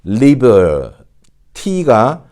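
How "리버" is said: "리버" slowly, ending on an American R; drawn-out R-coloured "리버"; R kept in. Shown as a demonstration. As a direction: hold the R at the end of "리버". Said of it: "R 발음을 항상 챙겨서".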